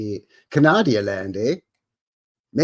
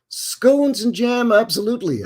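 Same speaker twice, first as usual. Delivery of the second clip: put-on posh British accent; 11 semitones higher, 5 dB louder than usual.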